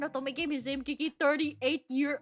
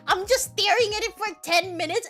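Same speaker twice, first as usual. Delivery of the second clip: higher and louder, squealing with glee; breathless fangirl excitement; excited squeal; 3 semitones higher, 4 dB louder than usual. Real, not acted. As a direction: gush like a fangirl. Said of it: "I'm screaming like I'm getting murdered".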